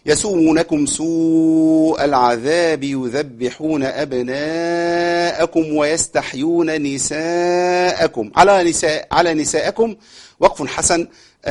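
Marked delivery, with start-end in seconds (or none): 0.1-8.3 slow, measured chanting of the verse; Quran recitation. Shown as a demonstration. Teacher recites the verse for students, slow chant. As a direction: recite it calmly with long vowels.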